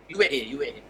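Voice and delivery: low scolding in Arabic; mock angry scolding. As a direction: tell them off gruffly, half-mimed. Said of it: "Dia kata". (marah-marah dalam bahasa Arab)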